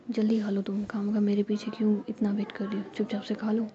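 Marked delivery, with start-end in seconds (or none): none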